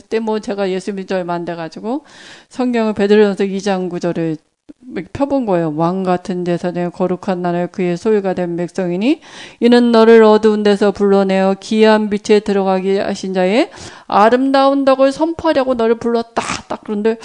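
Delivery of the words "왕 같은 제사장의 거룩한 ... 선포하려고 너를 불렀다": measured recitation of a verse; scripture recitation. Acted. Preacher quoting 1 Peter to the congregation, reverent recitation.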